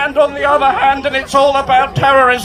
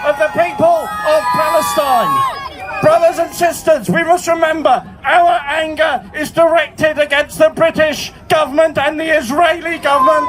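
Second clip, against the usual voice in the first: full-force, measured public speech; rally oratory. Real, not acted. Union chief addresses the demonstration, shouted oratory. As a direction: deliver each phrase out to a big crowd.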